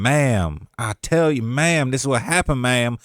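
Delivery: lightly imitated Savannah drawl; Quando. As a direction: lean into a hypnotic Savannah lilt on each "ma'am". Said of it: "he talks like in this crazy hypnotic Savannah".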